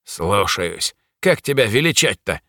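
a demon voice, lightly rasped; grudging, servile demon croak; demon rasping. Acted. Subdued demon asks the mage his name, lightly rasped. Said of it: "прохрипел демон".

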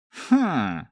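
short disdainful hm; scornful grunt. A narrator's reading. Groom grunts scornfully at the helpful narrator. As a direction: grunt in contempt. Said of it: "хмыкнул он".

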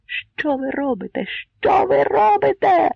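building from high to very loud high cry; outrage growing on the repeat; shouting. A narrator's reading. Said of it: "закричав Богун". (наростаючий обурений крик)

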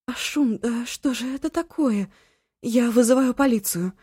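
high, agitated pleading; panicked and insistent; alarmed. A narrator's reading. Eva panicking about calling the police.

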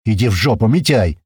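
loud angry yell; loud rude retort. Acted. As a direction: yell back rudely. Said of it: "орёт Слива".

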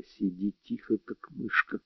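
very hushed instruction; whispered. A narrator's reading. Steve tells Netta to keep still, whispering. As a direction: keep it barely audible. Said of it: "прошептал я".

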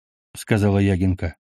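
ordinary delivery, nothing marked

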